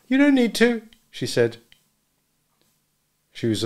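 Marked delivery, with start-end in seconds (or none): 0.1-0.9 much higher, clipped refusal; cool refusal. A narrator's reading. Marjorie refusing Nick's help pushing the boat. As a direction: turn down his help.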